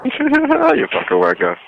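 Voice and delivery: high, drawn-out laughing jeer; laughing insult. Real, not acted. Call recipient laughs at the prank caller, laughing insult.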